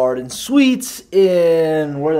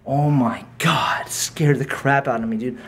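shaken. Real, not acted. Shaken after hearing screams.

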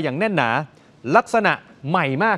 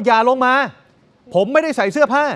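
raised, higher mock yell from the pond; retold shout; 6 semitones higher, 4 dB louder than usual. Anchor retelling a man at the pond yelling at the villager, a mock shout. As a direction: call out like a startled man warning someone off. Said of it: "มีเสียงผู้ชายตะโกนขึ้นมาว่า".

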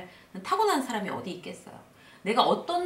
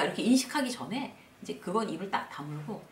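normal talking voice

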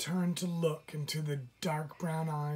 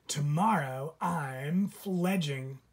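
put-on chirpy baby bird; 4 dB louder, slower than usual. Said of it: "chirped the baby chickadee".

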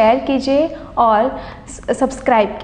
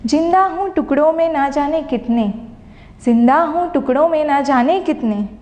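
poem recitation. Acted. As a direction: recite each line as if asking the world. Recites her poem over music.

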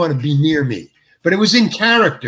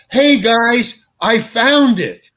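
higher, louder call, slowed with a laugh; retold yell from mound; 7 semitones higher, 4 dB louder, much slower than usual. Actor shouting down from the garbage mound to the others, triumphant. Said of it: "then you hear me yell".

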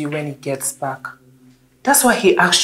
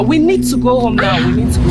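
raised, insistent voice; urgent urging; 7 semitones higher, 7 dB louder, faster than usual. Acted. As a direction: urge them away loudly. Urging the screaming woman away.

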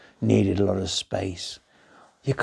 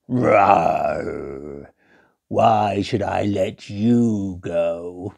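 lion voice; 3 semitones lower, much slower than usual. Acted. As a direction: lower growl, then slow question. Lion questions the mouse.

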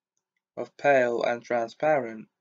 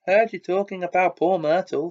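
high, loud, teasing imp voice; a mischievous sprite stirring trouble; gleeful poltergeist; 6 semitones higher, 5 dB louder than usual. A narrator's reading. Peeves taunting Hermione, high and gleeful. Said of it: "his eyes dancing".

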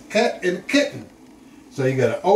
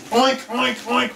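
higher-pitched little oinks; playful pig oinks; 5 semitones higher than usual. Pretend. Grandpa quizzing toddler on animals, playful higher oinks. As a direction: imitate a pig for a toddler to guess.

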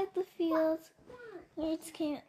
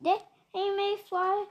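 louder, urgent plea; pleading Lorax; 4 dB louder than usual. Acted. Lorax pleads with the Once-ler about the birds, loud and urgent. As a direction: beg him to see the harm.

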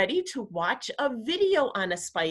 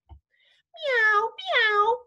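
very high, stretched-out meows; cat meow; 6 dB louder than usual. A narrator's reading. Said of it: "cried the cat".

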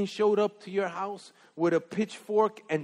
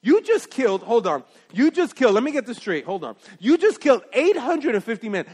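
incredulous; 3 semitones higher, 4 dB louder than usual. Real, not acted. Preacher disbelief at killing count.

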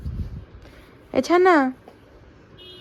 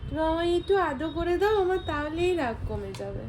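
mock pleading; 7 dB quieter than usual. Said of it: "আমি কিন্তু কাঁদছি".

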